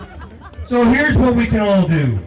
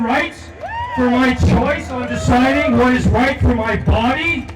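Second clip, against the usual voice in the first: raised voice, pounding each "I am done"; rising rally cry; 3 semitones higher than usual. Real, not acted. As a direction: build the anger line by line. Angry "I am done" litany.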